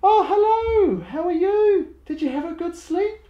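put-on high-pitched sing-song baby talk. Shown as a demonstration. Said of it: "you need to go like".

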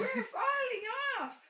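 high loud squeal with a laugh; laughing mock squeal of falling off. A narrator's reading. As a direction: squeal like tumbling animals. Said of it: "squealed Cat and Dog".

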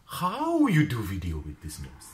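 put-on slow, lightly accented broken English; pub friend's accent. Pub friend Kirill asking about the nose, slow light accent. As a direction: ask it slowly in a light foreign accent. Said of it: "Kirill, he said to me".

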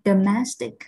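domestic with MES stressed; domestic, main beat on the middle syllable; stress on second syllable. Shown as a demonstration. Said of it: "trọng âm rơi vào âm thứ hai".

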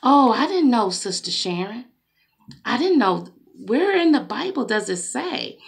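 lightly voiced feigned innocence, soft on the name; a hint of a sister pretending not to know; mock innocent playing dumb. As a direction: act dumb, a little wide-eyed. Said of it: "They like to act like they don't know".

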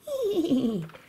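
playful high whinny; toy horse neigh. Pretend. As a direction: give a little pretend neigh.

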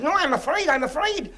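high, frightened pleading; mock terror, voice up high; scared cry. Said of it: "He said".

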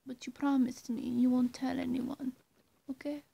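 ordinary delivery

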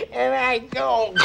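usual speaking voice

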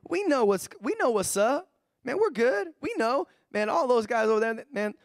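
mock-boastful bragging; smug Californian. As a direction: show off like you've got it all. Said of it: "We think we got it all".

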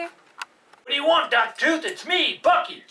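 high cartoon dog voice. Dog puppet Bucky appears.

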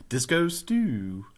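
lightly imitated cartoon catchphrase, drawn out slowly; a hint of a cartoon character, slow; Disco Stu. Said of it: "from The Simpsons".

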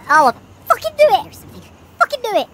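real yell of panic at the game; frantic shout. Real, not acted. Frantic shouting while escaping.

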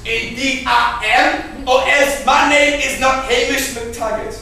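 loud, hammed-up old man in a put-on accent; grand, overdone comic accent. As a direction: proclaim it as a theatrical old man. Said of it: "old man".

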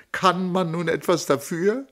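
high, stress on "man"; pleading question. Acted. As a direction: ask "Kann man nun etwas dafür?" with stress on "man". First asking.

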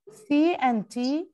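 C and T drawn out one letter at a time, very slow; teacher sounding out C and T letter by letter; slow spelled letters. Shown as a demonstration. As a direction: spell out C and T slowly for the class.

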